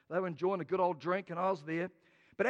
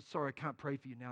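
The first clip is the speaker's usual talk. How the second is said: regretful refusal; 7 semitones lower, 9 dB quieter, faster than usual. Retold or imitated. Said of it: "And I said".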